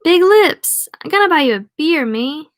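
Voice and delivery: high, loud French-Canadian lumberjack; French accent. Acted. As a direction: bellow it merrily with a French accent. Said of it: "He has a French accent?".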